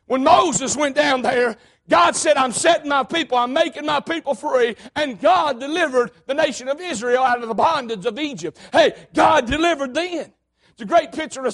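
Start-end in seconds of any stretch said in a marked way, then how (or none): 0.0-10.3 fiery sermon, called out strong; preaching. Acted. Preacher calling out deliverance to the church.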